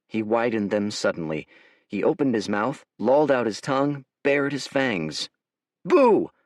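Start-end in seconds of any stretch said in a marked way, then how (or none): 5.8-6.3 high, loud mock-scary boo. A narrator's reading. Dorian baring fangs to scare the village boy. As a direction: leap out to frighten.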